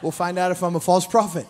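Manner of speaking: normal talking voice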